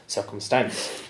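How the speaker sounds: circum-STANCE, weight on the ending; Munster final stress. Shown as a demonstration. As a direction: stress on the last syllable of circumstance. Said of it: "the stress on the final syllable".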